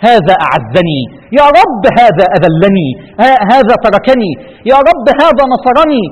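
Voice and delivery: slow loud lament of personified Islam calling on God; Islam pleading to God. Pretend. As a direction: voice Islam accusing before the Lord. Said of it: "يقول".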